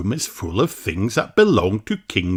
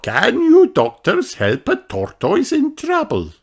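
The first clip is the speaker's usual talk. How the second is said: teacher gazelle; 14 semitones higher than usual. A narrator's reading. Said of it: "asks Madame Gazelle".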